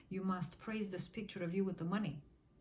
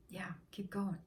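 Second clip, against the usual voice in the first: whisper. Real, not acted. Coach urging the listener on in a whisper. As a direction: coax them on under your breath. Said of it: "coaching listener through affirmation".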